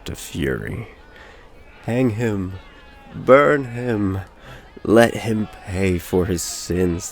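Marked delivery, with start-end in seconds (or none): 1.8-7.1 shouted high and loud, slowing on the last; crowd crying out. A narrator's reading. Angry villagers demanding the hanging, shouting. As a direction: cry for his blood. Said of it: "they cried".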